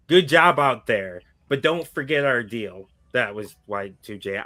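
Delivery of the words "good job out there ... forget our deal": half-hearted wrestler impression, a little louder; Y two J. Host quoting wrestler's locker-room reminder, half-hearted impression. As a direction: attempt the wrestler's voice, not quite getting it. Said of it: "I can't do his voice".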